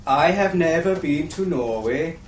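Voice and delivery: fake Norwegian accent. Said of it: "I am fake Norwegian".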